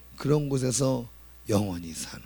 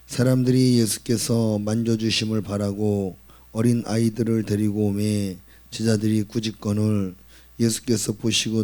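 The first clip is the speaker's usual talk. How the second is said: loud, solemn Bible reading to the church; scripture reading; 2 semitones lower, 6 dB louder than usual. Acted. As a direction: proclaim the verses to the congregation. Reading scripture aloud to congregation. (크고 엄숙한 성경 봉독)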